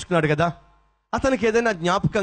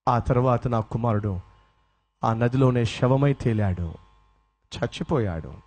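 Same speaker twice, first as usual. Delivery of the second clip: grieving; 6 semitones lower than usual. Acted. Father tells of son's death.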